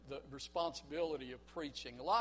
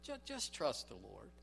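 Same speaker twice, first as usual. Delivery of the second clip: lower, gentle repeat; soothing; 5 semitones lower than usual. Acted. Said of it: "began to speak in soothing tone".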